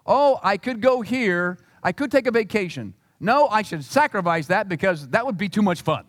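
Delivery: lightly mock a believer talking himself out of fun; mock pious believer. Mock voice of self-denying Christian.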